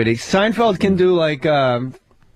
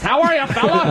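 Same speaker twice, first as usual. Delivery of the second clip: higher, lightly put-on white-guy voice; mock white guy; 5 semitones higher than usual. Comic shows how he talks, mock white-guy voice. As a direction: exaggerate a friendly white fellow, pitched higher. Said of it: "I grew up talking like this".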